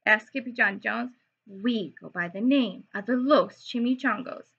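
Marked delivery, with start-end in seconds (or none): 1.5-4.4 growl. Acted. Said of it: "growled Don Diego".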